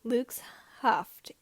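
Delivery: ordinary delivery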